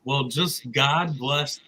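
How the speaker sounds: whispering. Retold or imitated. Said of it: "And it's like".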